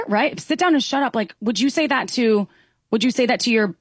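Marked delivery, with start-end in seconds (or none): 0.4-1.1 harsh command, pitched high. Shown as a demonstration. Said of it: "if he said it in a way that was a lot nicer".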